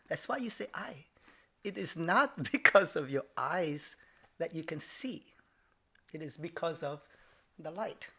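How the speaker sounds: imitated Japanese accent, mostly hushed; dad's Japanese accent. Dad correcting selfish son, Japanese accent. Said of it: "I have to do it in his accent".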